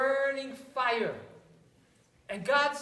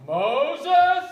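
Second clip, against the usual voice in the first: booming God voice, much louder; God's deep voice; 4 semitones higher, 11 dB louder than usual. Acted. God speaks to Moses, booming and loud. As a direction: boom out the name. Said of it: "God has a deep voice".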